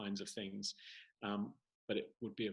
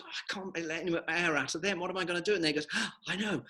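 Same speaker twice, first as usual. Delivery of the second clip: little balloon voice; 6 semitones higher, 4 dB louder, faster than usual. Acted. Baby balloon worrying aloud.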